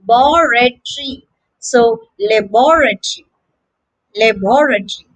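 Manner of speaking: short "luh", then BOR-uh-tree in "laboratory"; British luh-BOR-uh-tree for "laboratory"; British pronunciation. Shown as a demonstration. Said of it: "word begins with a short l".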